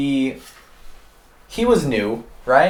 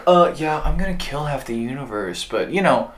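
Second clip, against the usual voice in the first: a hint of a smug supervillain; Thanos impression; 4 semitones higher than usual. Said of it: "That was my terrible job".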